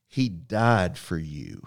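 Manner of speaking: slow, grave mother's line, lightly voiced; understated solemn mom; mom's answer. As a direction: let each word land slowly, like a mother stating a hard truth. Mom's punchline in retold story.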